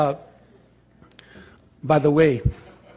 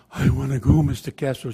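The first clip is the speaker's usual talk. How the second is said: tearful plea; 4 semitones lower than usual. Retold or imitated. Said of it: "She starts crying more".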